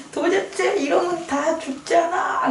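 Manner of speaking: half-laughing mock yell over dead clams; retold angry yell. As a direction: shout it as you did back then, drawn out. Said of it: "이렇게 소리를 지르는 거예요".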